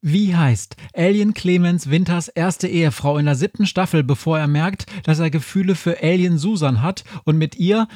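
announcing a pub quiz round; quizmaster's question. Acted. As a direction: read out the quiz question with show-host lift.

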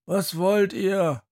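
a grumpy man yanks the door open; gruff man at the door. Acted. Man in undershirt to children at the door, annoyed. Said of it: "fragt ein Mann im Unterhemd".

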